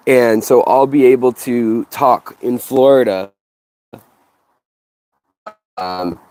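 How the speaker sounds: muffled, like talking into a cup; boxy lapel mic sound. Real, not acted. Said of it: "Sounds like I'm talking into a cup".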